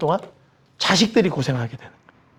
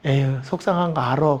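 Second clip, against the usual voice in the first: low, sighing reassurance; understated, lower-pitched forbearance; patient sympathy; 6 semitones lower than usual. Acted. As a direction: let the complaint go with weary understanding. God patiently answering a complaint.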